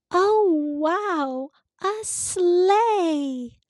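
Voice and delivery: put-on high, bright delighted gasp of a little girl; child thrilled to find a sleigh, high and excited. Girl spots a toy sleigh.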